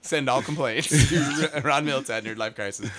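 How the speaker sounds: laughing. Real, not acted. Mock disclaimer while laughing.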